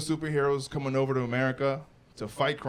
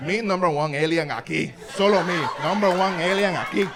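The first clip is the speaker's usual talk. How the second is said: put-on louder accented boast, laughing; mock boast; 3 semitones higher, 5 dB louder than usual. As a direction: claim the title proudly. Hero boasting at aliens.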